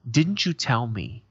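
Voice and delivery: slow, drawn-out reproach; accusing. Retold or imitated. Grandfather to grandson about a broken promise, slow accusing. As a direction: imitate a grandfather pointedly confronting someone.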